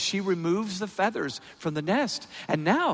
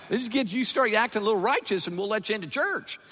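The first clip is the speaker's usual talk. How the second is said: higher-pitched mimicry of churchy demands; mock conditional welcome; 7 semitones higher, 3 dB louder than usual. Preacher parodies church folk setting terms for newcomers, mocking. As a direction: put on a high, preachy condescension.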